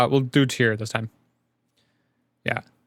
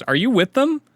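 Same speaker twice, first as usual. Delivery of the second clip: high, loud disbelieving ask; high loud incredulous question; 11 semitones higher, 5 dB louder than usual. Acted. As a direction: stare at him in disbelief. Ivy asks Cloud incredulously.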